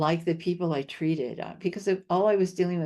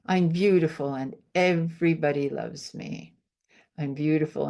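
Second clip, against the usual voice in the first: affirmation demo. Shown as a demonstration. Healer demonstrating a self-love affirmation to the host, assured. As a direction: say it like you believe it fully. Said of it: "I'll show you one of my favorite things to do".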